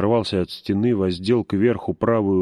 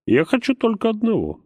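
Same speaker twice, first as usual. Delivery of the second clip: anguished poet; 7 semitones higher than usual. A narrator's reading. Poet's anguished outburst.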